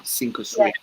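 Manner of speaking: breathy whisper of resolve; hushed self-pep talk; whispered to himself. Retold or imitated. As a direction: breathe it to yourself, bracing. Dramatic inner thought at backstage.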